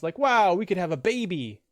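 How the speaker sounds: a high, loud mock gush of "wow"; mock gushing streamer. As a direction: squeal "wow" like a smitten fan. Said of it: "and it's like".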